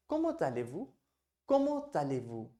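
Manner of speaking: Comment allez-vous said slowly and carefully; French pronunciation. Shown as a demonstration. Teacher models the polite question for students. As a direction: model the formal question for learners. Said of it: "तो आप कहेंगे".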